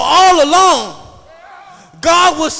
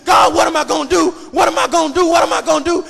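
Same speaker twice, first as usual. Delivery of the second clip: hurried, worried pleading, acted out; mock panic. Preacher imitating worried believers crying to God, mock panic. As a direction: rattle off the complaints like a worrier. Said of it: "we, we, we, we panic".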